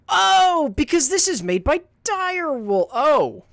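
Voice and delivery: high, bright sudden realization; surprised. Real, not acted. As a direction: say it like you just recognized it. Surprised recognition of game studio.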